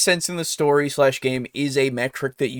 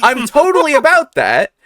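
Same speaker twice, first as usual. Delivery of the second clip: talking through laughter; laughing; 10 semitones higher, 8 dB louder than usual. Real, not acted. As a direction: laugh while saying it.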